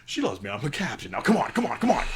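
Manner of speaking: captain excusing his crewmate, lightly voiced; cheery minotaur captain. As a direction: laugh off the rude gesture and hurry along. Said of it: "minotaur continues after the dwarf's insult".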